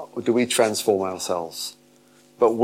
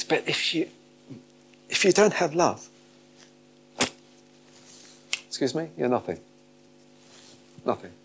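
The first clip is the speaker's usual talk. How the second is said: high, soft and halting; hushed letdown; 5 semitones higher, 6 dB quieter than usual. Acted. Preacher deflating the gifted who lack love, hushed. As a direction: drop to a small, gentle voice with long pauses. Sudden hush after grand build-up.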